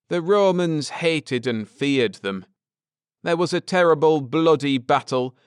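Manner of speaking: earnest scholar laying out history; Ned, earnest. Acted. Ned explaining the Druids to his wife, lightly voiced earnest man.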